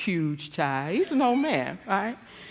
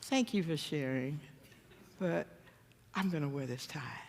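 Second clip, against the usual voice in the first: calm deflection; 9 dB quieter than usual. Retold or imitated. Husband's calm deflecting reply.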